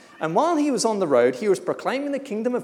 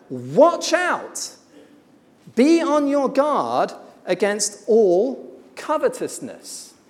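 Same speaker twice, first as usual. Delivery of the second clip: louder and higher, slowing on the second part; Jesus warning the man, loud and severe; 4 semitones higher, 5 dB louder, slower than usual. Acted. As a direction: warn him sternly, hammering it home. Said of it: "Jesus warned the man most severely".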